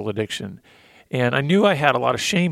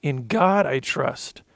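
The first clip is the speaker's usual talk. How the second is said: slow heartfelt reading; slower than usual. Real, not acted. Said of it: "I'm gonna get emotional".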